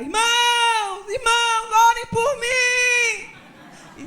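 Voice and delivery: high, loud, drawn-out cry for help; boy's desperate shout. Retold or imitated. Boy carried out by his father, begging the congregation in a high wailing shout. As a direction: wail it to the whole church. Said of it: "começa a gritar".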